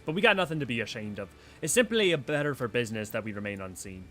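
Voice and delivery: swagger through it like a pirate; a hint of a rough pirate; bold pirate boss. Reads pirate leader's lines.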